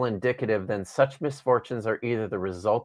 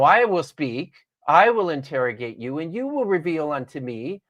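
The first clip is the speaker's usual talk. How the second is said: Job's words with a bitter, sardonic edge; read differently, sardonic. Shown as a demonstration. Job answering God, tired and sarcastic. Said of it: "but you can read it differently".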